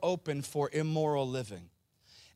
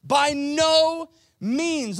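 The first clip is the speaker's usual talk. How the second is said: much higher, louder and slow; with more gusto; 11 semitones higher, 10 dB louder, much slower than usual. Shown as a demonstration. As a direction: bellow it with full conviction. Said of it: "with a little more gusto".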